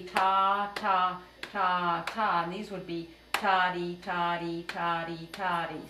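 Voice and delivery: spoken rhythm syllables, evenly spaced. Shown as a demonstration. Teacher speaks the rhythm names for students. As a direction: say each ta and ta-dee on the beat. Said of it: "if we were gonna say the rhythm".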